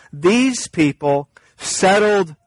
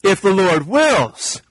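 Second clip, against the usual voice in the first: James correcting; 3 semitones higher than usual. Acted. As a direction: interrupt to correct, leaning on each "if the Lord wills". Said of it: "He'd stop you and say".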